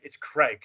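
CRAIG said firmly, falling; exasperated name correction. Retold or imitated. Actor correcting a man who misnames him, "Craig" stressed. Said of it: "he can't say my name right".

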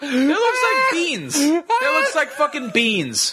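high, slow, helpless laughter; crying with laughter. Real, not acted. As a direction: laugh until it almost turns to tears. Cracking up at the dish.

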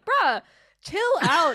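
high, loud mock exasperation; hammed-up fed-up American protest; exasperated retort. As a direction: push back hard, voice jumping way up. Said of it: "And I was like".

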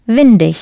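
windig with the D back, then ich; D and ich ending. Shown as a demonstration. Teacher repeats endings for learners, D and ich ending. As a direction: sound the D in windig and end on ich. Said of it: "pronounce the D and ich ending".

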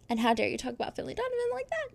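high-pitched playful indignation; how-dare-you, hammed up high; mock outrage. Mock scolding of a reviewer.

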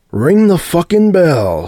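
high, slow scream. A narrator's reading. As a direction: scream it out full force. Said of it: "Sebastian screamed".

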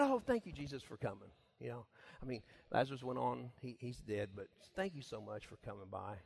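preacher shows Martha's grateful reply. Retold or imitated. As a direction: say it kindly. What Martha could have said.

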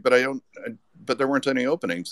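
can't believe the offer, words tumbling out; stunned disbelief. Retold or imitated. To editors offering him a staff job, stunned and rushed.

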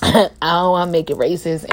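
embarrassed laugh through the words; a sheepish chuckle then the line. Real, not acted. Laughs at own slip.

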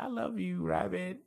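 high, doting little voice; high cartoon voice. Cartoon character professing love to a pink rabbit, high cartoon voice. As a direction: lift it way up, sweet and childlike. Voicing Puddin' to his rabbit.

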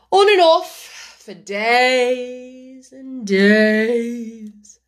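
slow, drawling footman; unhurried servant, no interest at all. A narrator's reading. Footman voice in story.

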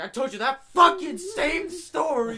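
high, loud, laughing outburst; laughing exasperation. Retold or imitated. Telling the friend it was his own story, loud laughing outburst. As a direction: burst out through laughter.

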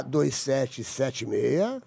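low, slow repeat of the digits; slow dictation. Shown as a demonstration. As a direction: read the number back slowly. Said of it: "Bem devagar".

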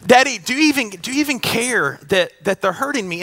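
put-on wounded little boy asking his dad; tearful child. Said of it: "he says".

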